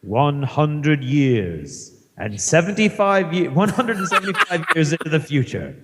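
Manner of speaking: a lightly theatrical trailer read; hammy stage actor. Pretend. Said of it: "read in your best theatrical voice".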